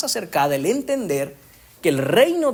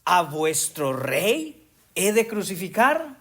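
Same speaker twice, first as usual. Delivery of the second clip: surprised Pilate; slower than usual. Retold or imitated. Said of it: "Pilato sorprendido les dijo".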